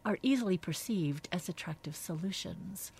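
measured, reflective book reading; thoughtful devotional narration; reading aloud. A narrator's reading. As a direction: read the passage out with deliberate phrasing. Reads a book passage aloud.

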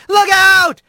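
high, urgent yell; sharp high cry of warning; warning shout. A narrator's reading. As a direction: shout to clear people from danger. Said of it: "he shouted again".

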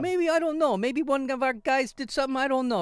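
high, shrugging Russian mobster voice; Russian accent. Retold or imitated. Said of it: "that's your Russian accent?".

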